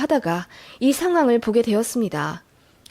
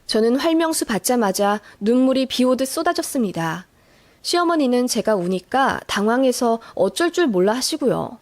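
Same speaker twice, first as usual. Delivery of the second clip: ordinary delivery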